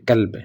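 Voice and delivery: کلب with a light k, "kalb"; wrong thin kaaf. Shown as a demonstration. Teacher showing the slip that means dog, کلب with thin k. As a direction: say کلب with a plain front k. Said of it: "اگر ہم کلب پڑھ دیتے ہیں".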